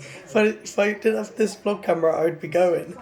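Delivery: holding back tears at a happy dog; on the verge of tears. Real, not acted. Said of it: "on the brink of bloody tears".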